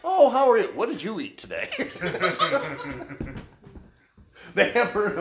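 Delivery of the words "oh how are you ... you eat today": chirpy small talk. Retold or imitated. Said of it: "woman next to her says".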